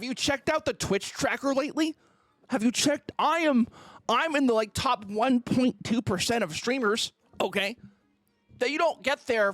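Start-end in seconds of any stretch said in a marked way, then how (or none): 2.5-7.1 louder, indignant boasting; heated rant. Real, not acted. Streamer loudly defends his ranking against the insult. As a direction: shout him down with your numbers.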